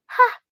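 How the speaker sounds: sharp, loud acted gasp; a sudden "ha" of alarm, re-enacted; startled gasp. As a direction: gasp as if noticing something wrong. Acts out startled discovery at home.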